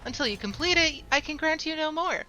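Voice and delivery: lightly voiced formal guild official; a hint of a pompous official; quest giver voice.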